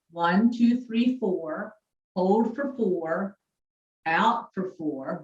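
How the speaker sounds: calm, slow breathing cues; slow guided breathing count. Shown as a demonstration. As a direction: count it out slowly, gently. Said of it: "leads breathing count".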